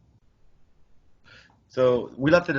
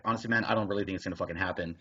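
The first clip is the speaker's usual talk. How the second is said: resigned aside; 4 semitones lower, 7 dB quieter, much faster than usual. Retold or imitated. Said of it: "And I was like".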